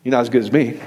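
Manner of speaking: a low, hushed superior sneer; smug put-down. Retold or imitated. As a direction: look down your nose at him, pitched low. Mocking legalistic church voice.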